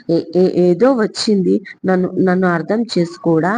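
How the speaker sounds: stammering a little through tears; lightly voiced hurt girl; understated tearful stammer; mild crying. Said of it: "అంది ఏడుస్తూ సిరి".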